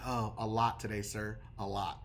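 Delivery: low, hushed acted reply; Bill. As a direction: drop deep and soft as the call-center agent. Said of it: "And Bill will laugh".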